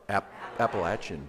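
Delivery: Appalachian as "appa-LATCH-un", leading the room; Southern pronunciation. Shown as a demonstration. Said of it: "Let me hear you say it".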